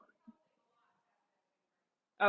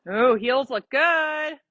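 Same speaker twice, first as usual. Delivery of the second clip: slow, louder delighted "Ooh"; pleased praise; 3 semitones higher, 5 dB louder, much slower than usual. Real, not acted. Praising rider's heel position.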